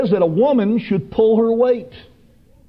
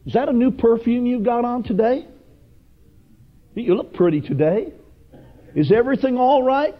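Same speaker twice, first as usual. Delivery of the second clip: higher, lilting mock sweet-talker; flattering snake; 4 semitones higher than usual. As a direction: fish for approval with rising questions. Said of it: "that snake is wanting some approval".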